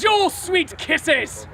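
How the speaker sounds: very slow, drawn-out flirting; coquettish. Acted. Manservant asking his lady for kisses, slow coquettish plea. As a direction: savour each word coyly. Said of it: "as coquettishly as he can".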